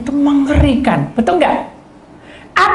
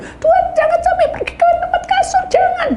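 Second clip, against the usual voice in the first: high squealing cry, fast, much higher; hammed-up high cry begging the Lord; mock yelling; faster than usual. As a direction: wail it in comic panic. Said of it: "kayak orang teriak-teriak".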